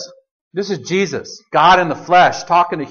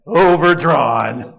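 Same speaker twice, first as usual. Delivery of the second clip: mock bank notice; 4 semitones lower, much slower than usual. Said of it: "a little note saying".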